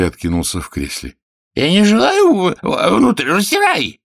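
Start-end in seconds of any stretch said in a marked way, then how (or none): 1.5-4.0 high, loud pouting refusal; sulky king. Acted. King refusing the medicine, high loud pout. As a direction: pout and stamp like a spoiled king.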